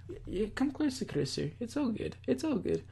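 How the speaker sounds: nervous stammer. Acted. Nervously soothing Kurisu in character.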